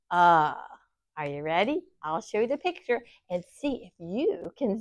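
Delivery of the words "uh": isolated uh, as in sun; short u sound. Shown as a demonstration. Teacher modeling the short u as uh. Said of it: "and U says".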